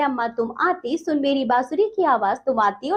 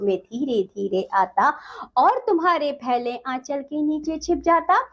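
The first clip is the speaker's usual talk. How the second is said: measured, sing-song verse reading; poem recitation. Acted. Teacher reciting the poem to children, lilting.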